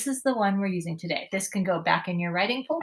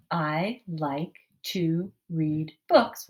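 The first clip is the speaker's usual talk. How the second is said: slow model sentence; much slower than usual. Shown as a demonstration. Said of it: "you can copy this sentence over".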